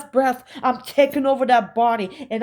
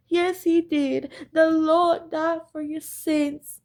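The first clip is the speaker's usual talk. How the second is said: high, sing-song fake-holy preaching voice; mock pious churchgoer; 5 semitones higher than usual. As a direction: play the hypocrite, sweetly pitched up and saintly. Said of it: "That's the facade they gave him".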